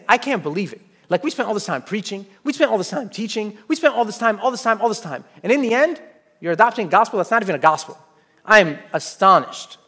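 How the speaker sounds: building frustration, repeating all this time; exasperated Paul. Retold or imitated. Paul complaining to the Galatians who strayed, exasperated. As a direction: vent like a let-down teacher. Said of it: "you sense kind of anger in his voice".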